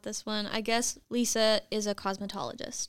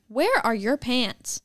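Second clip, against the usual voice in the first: put-on sassy kid; 2 semitones higher, 4 dB louder, slower than usual. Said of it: "with the most sass she could muster".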